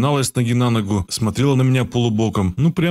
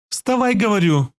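much higher, harsh repeated order, hitting вставай; rough shout; 9 semitones higher than usual. A narrator's reading. The girl's voice turns coarse as she orders him up. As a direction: shout it roughly with a man's edge. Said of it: "Её голос сделался грубым, появились жёсткие мужские нотки".

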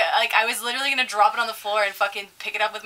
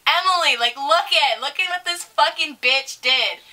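higher-pitched retold outrage; indignant calling out; 4 semitones higher than usual. Server calling Emily over about the tip, indignant. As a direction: call a coworker over, scandalised.

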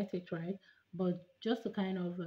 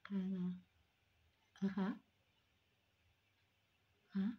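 fingers holding mouth open; retainer in mouth; 5 dB quieter than usual. Real, not acted. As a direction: mouth stretched wide open. Seen 2: Clear retainer in mouth, fingers pulling lips wide throughout.

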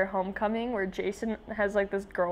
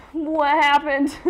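startled question; 6 semitones higher, 8 dB louder, slower than usual. Acted. Reading startled character line.

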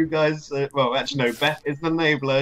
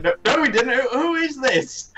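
retold caller; 11 semitones higher than usual. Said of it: "He's just like".

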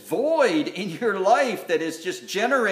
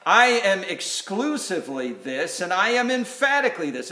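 firm stress on "exclusively" and "emphatically"; emphatic; 3 dB louder than usual. Acted. Preacher voicing Jesus's claim to be the only one, emphatic. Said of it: "I say this emphatically".

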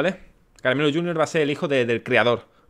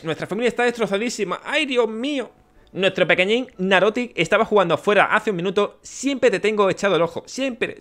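higher, pleading voice of a frantic dad; worried villager father; 4 semitones higher than usual. Acted. Frantic father begging the creator to find his son. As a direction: beg the creator for your lost son. Reads villager's plea letter.

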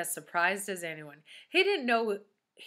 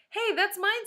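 put-on higher, louder kid's protest; 12 semitones higher, 6 dB louder than usual. Dana claiming her ruler from the teacher, protesting. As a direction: pipe up to claim what is yours.

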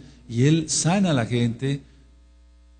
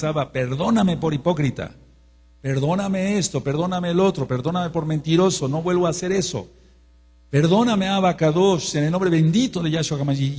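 pleading prayer; 3 semitones higher than usual. Retold or imitated. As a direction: beg Abba for pardon, rising to a cry on perdóname. Retold tearful prayer for forgiveness.

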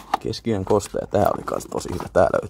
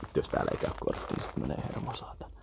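whispered cursing; 8 semitones lower, 8 dB quieter, faster than usual. Real, not acted. Worried the card won't work.

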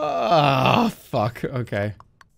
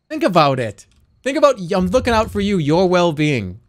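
mock persuasive; 2 semitones higher, 4 dB louder than usual. Real, not acted. Streamer persuading chat to switch.

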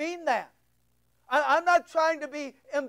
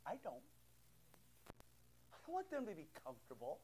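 much softer, breathy mock aside; mock whisper; 5 semitones lower, 29 dB quieter, much faster than usual. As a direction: mimic a soft-talking pastor in a hush. Mocking pastor who wants comfort.

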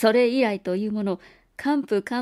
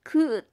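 strange groan; 6 semitones higher than usual. A narrator's reading. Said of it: "異様なうめき声".

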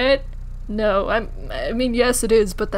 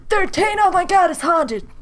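mock fright; 8 semitones higher than usual. Gasping at house number.

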